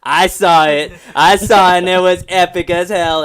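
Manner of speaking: loud, gloating mock boast; punched-out, showy brag; mock bragging. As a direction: brag about it like a kid who saw it first. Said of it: "he has that look like".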